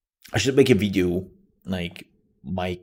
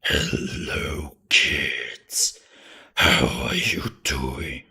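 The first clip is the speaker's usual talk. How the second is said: slow, louder spooky whisper; hard creepy voice; 6 semitones lower, 5 dB louder, much slower than usual. Shown as a demonstration. Streamer demoing the strained creepy voice again, slow whisper. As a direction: whisper it like a lurking villain. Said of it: "Being like".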